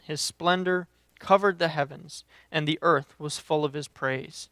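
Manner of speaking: deliberate reading, emphatic openings, falling phrase ends; scripture reading. Acted. Preacher reading Habakkuk's prayer to the church, deliberate scripture reading. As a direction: read the prayer out in measured, weighted phrases.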